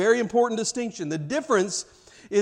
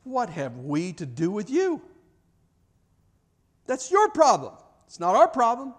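self-righteous dismissal; 4 semitones higher than usual. Retold or imitated. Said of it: "sanctimonious, self-righteous way".

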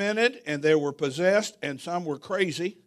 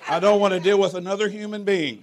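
fed-up outburst; 3 semitones higher, 6 dB louder than usual. Retold or imitated. Quoting his worn-out self.

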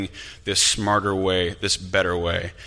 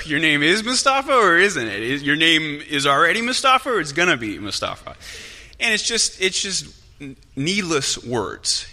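high, loud, baffled questioning; amused incredulity; 8 semitones higher, 5 dB louder than usual. Retold or imitated. Reporter puzzling over a man's answer, comically incredulous. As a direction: question it in exaggerated, laughing disbelief.

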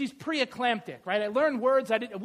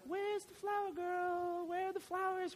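high, soft mock wedding guest; a dreamy guest looking for flowers; lightly put-on high voice; imitating a wedding guest; 8 semitones higher, 9 dB quieter than usual. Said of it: "You're like".

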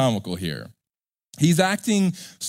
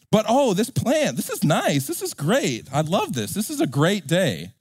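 put-on higher, childish glee over the plant; delighted Jonah; 4 semitones higher than usual. Jonah gushing over his shade plant, childishly delighted. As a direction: gush like a kid with a toy.

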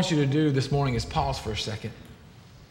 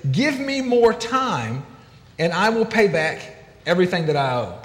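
begging. Retold or imitated. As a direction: stretch out the plea for more time. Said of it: "he begs and says".

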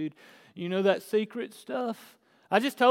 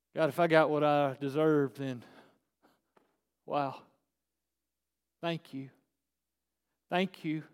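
humble prayer; 4 semitones lower than usual. Shown as a demonstration. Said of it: "You didn't".

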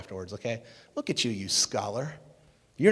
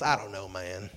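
lower, lightly imitated Southern US accent; 4 semitones lower than usual. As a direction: drop the pitch into a mild Southern accent. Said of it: "kind of a southern accent".

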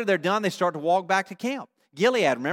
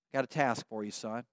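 very low, very soft voice; hushed fatherly commission; 9 semitones lower, 15 dB quieter than usual. Acted. God gives his son a task, hushed fatherly voice. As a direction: entrust the task quietly and gravely.

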